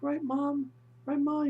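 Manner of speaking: loud, very high mock-desperate appeal; hammed-up imitation of a son cracking up; mental breakdown. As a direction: beg for reassurance in frantic falsetto. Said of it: "He's having a mental breakdown".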